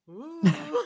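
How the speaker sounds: high, loud mock "ooh"; a playful startled "ooh" breaking into laughter; reacting to yelling. Wife reacting to husband's rare yell, mock-impressed ooh. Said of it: "when he yells, I'm like".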